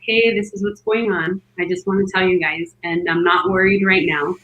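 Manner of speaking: low, matter-of-fact reassurance; very calm. Retold or imitated. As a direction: imitate a midwife calmly keeping everyone informed. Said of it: "it was just very calm".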